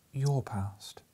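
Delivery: hushed whisper; soft and gentle. Acted. The ghost answering Scrooge, soft and gentle. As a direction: answer softly from a distance. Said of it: "The voice was soft and gentle".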